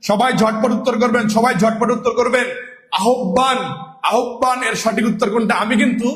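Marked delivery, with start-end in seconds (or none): 3.0-3.6 "আহ্বান" said a-hok-ban, as spelt wrongly; deliberate mispronunciation. Shown as a demonstration. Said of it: "অশুদ্ধ উচ্চারণ করছি". 4.1-4.6 "আহ্বান" as a-hok-ban, hiding the right sound; deliberate mispronunciation. Shown as a demonstration. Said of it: "অশুদ্ধ উচ্চারণ করছি".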